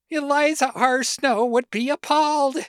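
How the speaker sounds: outraged declamation. A narrator's reading. Narrator reading the women's buttons at the story's climax, loud outraged cry. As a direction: declaim it at full voice, stretching the final question.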